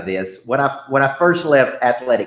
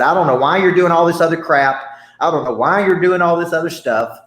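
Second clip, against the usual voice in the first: agitated director; 4 semitones higher, 4 dB louder than usual. Retold or imitated. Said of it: "he was agitated".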